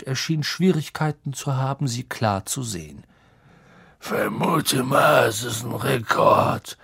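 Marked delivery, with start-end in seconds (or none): 4.0-6.8 slow slurred tipsy voice; drunk slurring. A narrator's reading. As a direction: mumble it half drunk. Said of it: "mit bräsiger Stimme".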